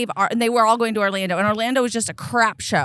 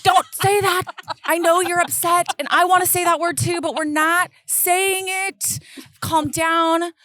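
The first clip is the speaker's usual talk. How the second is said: higher, firm parental scolding; firm mom; 5 semitones higher than usual. Retold or imitated. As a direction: set the limit, steady and firm. Mom scolding upset son.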